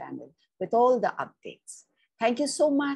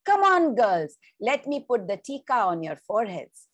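higher, louder call, then a quick kindly rush; grandmother calling girls; 4 semitones higher, 5 dB louder, faster than usual. Acted. Nani calling granddaughters to sit for tika, bright summons. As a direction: call the girls over like a busy granny.

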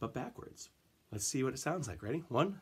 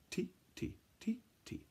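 whispered echo; 11 semitones higher, 7 dB quieter than usual. Shown as a demonstration. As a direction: whisper tee, tee softly in rhythm. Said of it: "Try it again".

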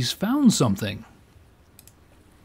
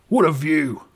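put-on accent, lightly higher; Scottish-ish accent; 4 semitones higher, 3 dB louder than usual. Winston admiring the river in a Scottish-sounding accent. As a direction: admire the view in a mock Scottish lilt. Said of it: "that's more like a Scottish accent".

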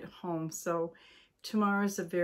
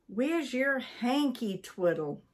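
cross wife; 4 semitones higher than usual. Acted. Cross wife questions husband.

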